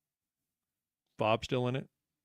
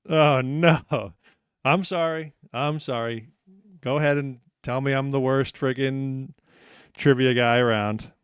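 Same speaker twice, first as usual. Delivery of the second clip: laughing apology; 6 dB louder than usual. Real, not acted. Host apologizes for trick question.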